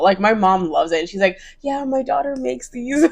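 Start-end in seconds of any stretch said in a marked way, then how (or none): 1.6-3.1 higher, slow, drawn-out mom boast; slow, lifted proud-parent voice; proud mom imitation. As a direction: brag about your kid, playfully imitated. Acts out own mom boasting.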